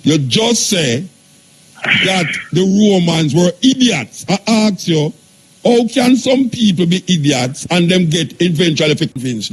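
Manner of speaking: rising to an irate rant at the idiocy; irate outburst. Real, not acted. Host to listeners, riled up about people believed, irate outburst. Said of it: "you gonna make me get irate".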